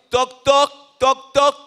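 loud, high spoken knock-knock; knocking sound. Acted. Preacher knocking at the believer's door, loud knock-knock. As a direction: rap out each toc loudly.

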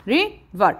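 river said in two separate beats; split into syllables. Shown as a demonstration. Teacher confirming the count, river in two parts. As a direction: break river after the first syllable. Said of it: "مقطعين".

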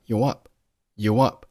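"you up" run together as one word; linked speech. Shown as a demonstration. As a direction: glide from "you" straight into "up". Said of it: "you和up是连读成了you up".

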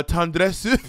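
breathy, drawn-out French tendresse; fake French accent. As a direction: purr tendresse like a mock Parisian. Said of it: "my fake French would be".

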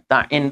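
ta'in quick, ta cut short into the ain; wrong doubled ain. Shown as a demonstration. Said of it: "ainnya jadi tasdid". (ta'in dengan ain jadi tasdid)

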